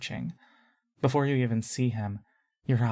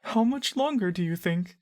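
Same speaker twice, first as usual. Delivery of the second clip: soft, shaky voice; 7 semitones higher than usual. A narrator's reading. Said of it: "in a soft, shaky voice".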